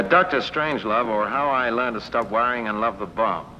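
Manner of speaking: title in a slightly American accent; lightly American-tinged accent; American-sounding accent. Real, not acted. Film star telling interviewer his film's title, American-sounding accent. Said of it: "Is that your American accent?".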